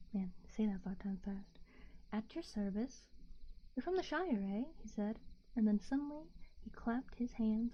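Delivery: hushed bedtime story narration; whispered story reading. A narrator's reading.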